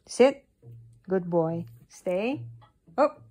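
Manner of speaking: firm sharp dog commands; talking to a dog. Real, not acted. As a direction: order the dog to sit. (bicara pada anjing)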